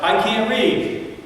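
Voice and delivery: put-on high, slow, sobbing child's wail; child crying out. Neighbor's boy caught in library, high slow sobbing cry. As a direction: cry it out like a scared little boy. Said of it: "the little boy cried out".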